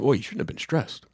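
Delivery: lightly voiced dad, understated; a hint of dismissive dad; dad's voice. Dad brushing off his stressed son, in dad voice. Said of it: "doing your dad's voice".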